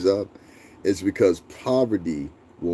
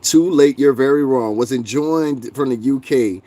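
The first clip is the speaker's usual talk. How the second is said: loud, haughty put-on voice; lightly voiced snooty commenter; mocking chatter voice; 3 semitones higher, 3 dB louder than usual. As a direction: read it like a pompous know-it-all. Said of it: "That's how these people sound to me".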